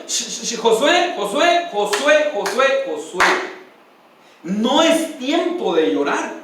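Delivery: calm him, slow on the last words; God hushing Josué. Retold or imitated. God quieting the weeping Josué, calling his name gently.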